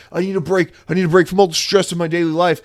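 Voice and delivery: mock Southern accent, stressed out; Satya Nadella. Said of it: "Satya Nadella is a Southern man now".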